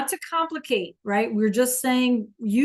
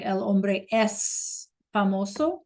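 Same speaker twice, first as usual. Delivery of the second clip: slow model sentence; slower than usual. Shown as a demonstration. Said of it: "teacher models Spanish slowly".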